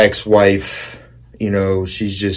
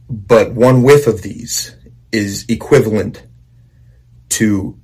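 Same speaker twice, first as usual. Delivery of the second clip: whispering. Real, not acted. Teasing the smelling salts' power.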